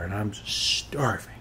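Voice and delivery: slow whispered complaint. Acted. Big guy admitting he is starving, slow whisper. Hungry aside.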